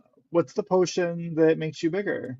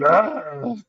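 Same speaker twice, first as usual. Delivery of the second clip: short half-hearted "ah"; pretend cry. Player pretending to say it, pretend cry. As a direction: fake a brief cry without full force. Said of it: "I'm gonna pretend to say it".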